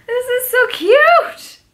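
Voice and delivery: high, laughing and near crying; slow teary laughing gush; laughing through tears. Real, not acted. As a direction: gush over it, half sobbing. Gift makes her emotional.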